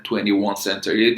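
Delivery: twenty-one century said slowly, word by word; slow careful model. Shown as a demonstration. Teacher models the company name slowly.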